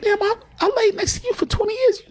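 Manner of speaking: very high, strained falsetto complaint; high-pitched hurt voice. Acted. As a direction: lift into a pained falsetto. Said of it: "when black men start talking like this".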